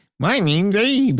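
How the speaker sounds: fun, bright, high-pitched voice. Describing a game character's voice, imitating Abe's fun voice. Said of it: "He's just kind of a fun voice".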